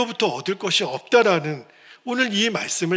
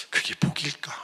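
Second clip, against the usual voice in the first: hushed whisper; 2 semitones lower, 6 dB quieter than usual. Real, not acted. Rhetorical question to congregation.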